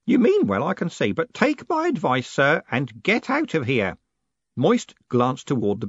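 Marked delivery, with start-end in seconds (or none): 0.0-4.0 put-on high, earnest old postman giving advice; old postman Grote. A narrator's reading. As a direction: urge him gently to leave, old man's voice. Old Grote voiced in narration.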